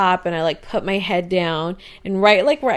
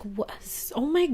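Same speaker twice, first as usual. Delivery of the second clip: startled grandma; 5 semitones higher, 6 dB quieter than usual. Retold or imitated. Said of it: "she's like".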